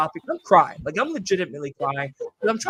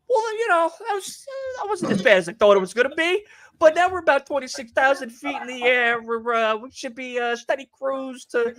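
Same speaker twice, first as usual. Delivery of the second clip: high, put-on pilot voice over the intercom; mock pilot announcement; 5 semitones higher than usual. Pilot reassuring the cabin, high mock announcer voice. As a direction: ham up the calm captain.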